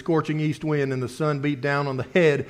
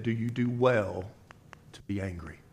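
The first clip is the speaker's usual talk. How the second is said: gentle God voice; 5 semitones lower, 9 dB quieter than usual. Acted. God's question voiced softly in sermon.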